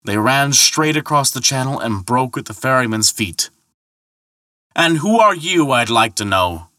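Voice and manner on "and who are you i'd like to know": shouted challenge, starting high; shouting. Acted. Thor demanding who the ferryman is, shouting. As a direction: throw the question across the water. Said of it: "shouted Thor".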